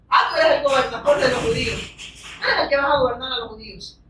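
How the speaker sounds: lightly voiced mocking governor; sarcastic Pilate. Preacher voices Pilate questioning Jesus, mildly sarcastic. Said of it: "pero sarcásticamente".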